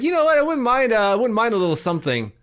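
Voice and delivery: high-pitched mock neighbor voice, easing down; coy neighbor imitation. Neighbor hinting she wouldn't mind a gift, mock-coy and high. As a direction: imitate someone casually angling for a favor, pitched high.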